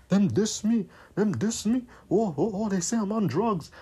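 swooping mock protest; singsong mocking complaint; mock complaining. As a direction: mimic someone griping about being insulted. Mimics their complaint about being dissed.

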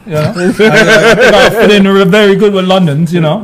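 slow put-on British accent like Idris Alba. Shown as a demonstration. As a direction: go full London, drawn out. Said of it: "Do that accent again".

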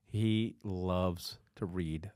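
slow, soft mock announcer read. Host introducing his co-host in a mild mock announcer voice. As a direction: lightly play up the guest intro, slowly.

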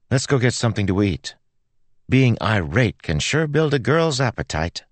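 put-on high, breezy girl's voice; confident girl. Girl reassures Joel and heads for food, breezy.

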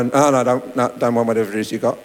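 rapid, interrupting refusal; hurried brush-off. Acted. Stranger turning away the evangelist in real life, fast and dismissive. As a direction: cut them off quickly, waving them away.

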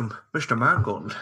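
light Scottish Connery voice; a hint of Connery's slurry Scottish; Sean Connery impression. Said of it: "someone to do a Sean Connery impression".

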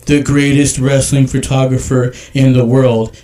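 slow, loud mocking read. Shown as a demonstration. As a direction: drag it out like reading his words back. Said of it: "I'm gonna read this in a slow voice".

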